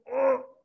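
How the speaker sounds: imitated groan of rage; angry groan. Shown as a demonstration. Teacher showing students how one tenses when very angry, angry groan. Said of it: "cuando uno está muy enojado".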